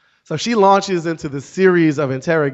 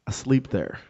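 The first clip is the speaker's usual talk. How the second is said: deadpan reply; 5 dB quieter than usual. Retold or imitated. Deadpan reply to gushing stranger.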